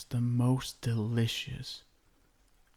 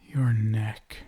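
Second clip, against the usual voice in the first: ordinary talk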